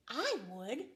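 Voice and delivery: a light creak on the words; creaky coral. A narrator's reading. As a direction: creak it out like crusty old coral. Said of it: "creaked a crusty coral".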